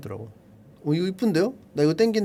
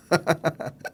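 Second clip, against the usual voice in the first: soft real chuckling; amused laugh; 2 semitones lower, 6 dB quieter than usual. Real, not acted. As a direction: laugh quietly at the absurdity. Laughs at repeat purchase review. (어이없어 웃음)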